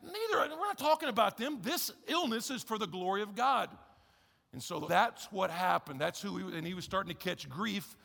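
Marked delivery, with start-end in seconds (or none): 0.0-3.7 Jesus speaking kindly. Retold or imitated. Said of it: "And Jesus is like".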